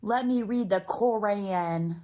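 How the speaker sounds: slow, hammed-up Texan accent on "Quran"; mock a clumsy American Texan accent; slow mocking Texan-accent parody. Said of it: "like, a Texan accent".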